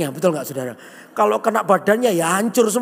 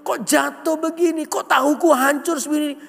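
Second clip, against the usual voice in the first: higher-pitched mock complaint to God; hammed-up indignant griping in a raised pitch; grumbling at God; 6 semitones higher than usual. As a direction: act out an aggrieved, pleading grumble. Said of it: "Dia ngomel dengan Tuhan".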